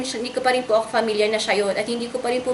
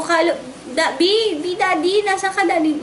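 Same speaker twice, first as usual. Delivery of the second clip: calling out; 5 semitones higher than usual. Retold or imitated. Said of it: "tinatawag ko".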